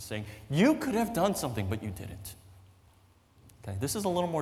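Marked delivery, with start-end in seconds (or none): 0.5-2.4 mild accusing tone. Acted. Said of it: "She's angry, she's upset at Jesus".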